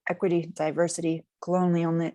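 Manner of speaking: talking around a bite of egg; mouth full. Real, not acted. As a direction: speak through a mouthful of food. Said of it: "Sorry, I have egg in my mouth still".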